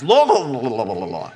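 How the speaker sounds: laughing, trailing off low into nonsense; mock gurgled prayer. Preacher laughing at his own pool attempt, babbling and trailing off. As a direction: play the sinking man who can't finish.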